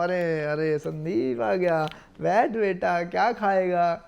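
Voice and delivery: drawn-out, effusive greeting to his face; mock welcome. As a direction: imitate a two-faced elder fussing over a guest. Acts villagers fawning to his face. (सामने मीठा बनने की नकल)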